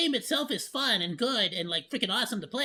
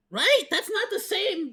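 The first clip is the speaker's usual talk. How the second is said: incredulous right; 10 semitones higher, 4 dB louder, slower than usual. Real, not acted. Seeking agreement, incredulous.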